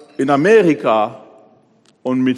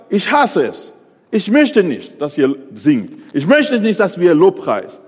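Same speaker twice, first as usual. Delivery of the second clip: God's anger; 4 semitones higher, 4 dB louder than usual. Acted. Preacher voices God hating worship.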